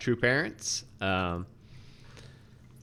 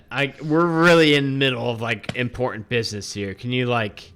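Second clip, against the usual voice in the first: dismissive. Acted. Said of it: "dismisses you pretty nonchalantly".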